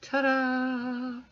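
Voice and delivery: high, bright ta-da; excited reveal. Real, not acted. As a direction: present it with a flourish. Reveals finished manicure.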